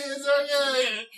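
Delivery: reassuring neighbor wave. Retold or imitated. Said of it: "you just waving and saying".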